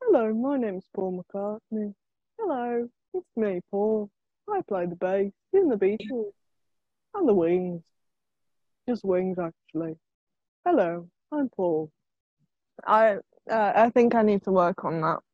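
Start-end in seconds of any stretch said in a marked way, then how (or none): 0.0-11.9 low, quiet put-on Liverpool accent; a famous musician. Friend having a go at a famous musician's voice, low mock Liverpool accent. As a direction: introduce yourself in a soft, deep mock Liverpool accent. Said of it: "talking his accent".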